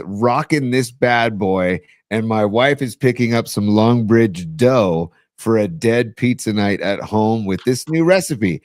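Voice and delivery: slow, measured read-out of a message; reading email aloud. Acted. Host reads a listener's pizza email on air, slow read-aloud. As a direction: read it out slowly, phrase by phrase.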